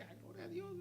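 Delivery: high laughing gloria a Dios; laughing praise. Real, not acted. Preacher laughs with joy over the reconciled couple.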